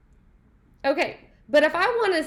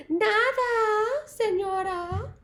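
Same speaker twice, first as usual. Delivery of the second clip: higher, playful "Nada, señora"; friend's sassy reply; 7 semitones higher, slower than usual. Retold or imitated. Teacher acting out a friend's reply, playful and higher. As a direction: toss it off like a cheeky friend. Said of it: "she'd say".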